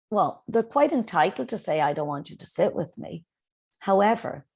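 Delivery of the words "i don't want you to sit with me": calm, even and polite. Shown as a demonstration. Teacher models a polite refusal to a classmate, calm. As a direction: say it kindly, no edge. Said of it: "in a polite tone of voice".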